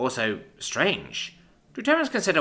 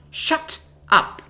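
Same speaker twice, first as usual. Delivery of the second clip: higher, harsh unvoiced snarl; 5 dB louder than usual. A narrator's reading. Commander silences the pleading envoy with a snarl. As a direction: cut him off with a snarl. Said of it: "she snarls".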